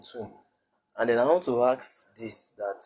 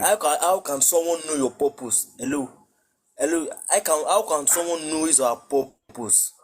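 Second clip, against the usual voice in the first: speaking up; 4 semitones higher than usual. Real, not acted. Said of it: "Speak out".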